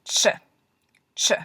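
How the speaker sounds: ch said crisply on its own; ch sound demo. Shown as a demonstration. Teacher showing the second husher sound ch. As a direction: sound out ch twice cleanly. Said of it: "here's the other one".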